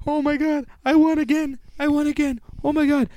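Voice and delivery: high, slow, shouting disbelief that turns to joy; Tony, dawning joy. Retold or imitated. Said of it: "Tony, is that you?".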